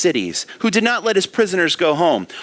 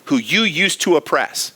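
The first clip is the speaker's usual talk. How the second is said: mildly hammed-up sarcastic jeer at a fallen king; sarcastic taunt. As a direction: lightly sneer at the fallen king. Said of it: "He's being sarcastic. He's like".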